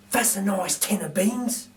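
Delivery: lightly voiced gruff burglar, slowed; a hint of a pleased thief eyeing loot; Burglar Bill voice. Narrator voices Bill admiring a toothbrush, lightly voiced. Bill's voice in read story.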